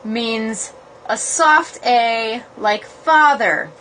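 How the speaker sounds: slow, drawn-out "A" as in "father"; soft A demo. Shown as a demonstration. Explaining the long A to viewers, slow. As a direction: stretch the "A" like in "father". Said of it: "an A with a line over it".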